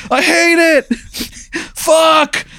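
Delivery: high put-on demon wail; demon in dismay. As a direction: whine it out like a thwarted demon. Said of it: "And he goes".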